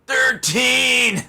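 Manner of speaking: loud, high astonished exclaim; surprised. Real, not acted. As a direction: blurt it out in disbelief. Surprise at stitches count.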